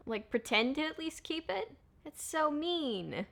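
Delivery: outraged disbelief. Real, not acted. Outraged at a mean scene.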